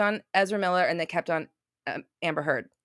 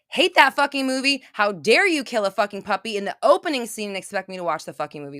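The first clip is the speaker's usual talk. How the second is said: heated, indignant rant with raised voice; real anger. Real, not acted. Streamer venting to chat about a killed puppy, angry. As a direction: rail at the outrage in genuine anger. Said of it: "That was real, true, like, anger".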